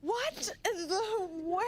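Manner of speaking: drawn-out amazed laugh; laughing disbelief. Real, not acted. Hearing the story ended there, slow laughing disbelief.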